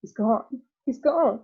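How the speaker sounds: a mother's horror breaking out; panicked scream. Acted. Mother seeing her son vanish, screaming in panic. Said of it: "she screamed".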